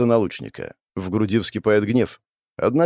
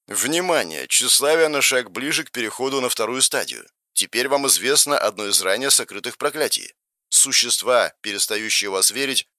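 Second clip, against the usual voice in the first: system voice; 3 semitones higher than usual. Acted. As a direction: read it like a game interface. System notification read out.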